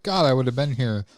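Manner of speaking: mock complaint. Acts out annoyed excuse to owner.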